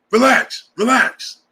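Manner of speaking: a hint of Nino's "relax"; Nino from Martin. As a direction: lightly mimic the character calming the dog. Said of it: "He was Nino".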